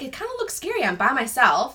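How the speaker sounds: high, mock-frightened voice; retold nervousness. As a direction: act out being nervous, starting way up in pitch. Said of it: "I'm shaking 'cause I'm like".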